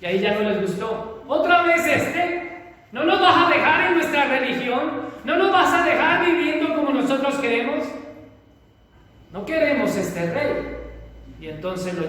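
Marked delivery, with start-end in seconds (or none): 1.3-10.8 a hint of an indignant crowd, higher and quick; angry crowd. Preacher acts the crowd rejecting the king, mildly indignant. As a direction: voice the crowd complaining about Jesus, fast.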